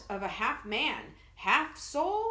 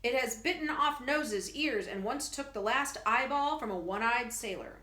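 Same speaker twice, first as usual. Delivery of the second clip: loud, higher barker warning the crowd; mighty showman call; 4 semitones higher, 4 dB louder than usual. Acted. Professor warning gentlemen off the biting creature, loud booming barker. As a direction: boom it out to hold the crowd back. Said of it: "His mighty voice ringing in the night".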